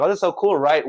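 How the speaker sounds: high, bright sarcastic gush; mock gushing presenter. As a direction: oversell it like a cheesy presenter. Mocking school presentation voice.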